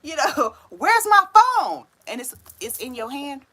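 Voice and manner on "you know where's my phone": higher, louder mock panic ending in a laugh; hammed-up flustered hunt for lost keys, slowing down; frantic search. Stoned viewer hunting keys, hammed-up frantic panic. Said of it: "And you like".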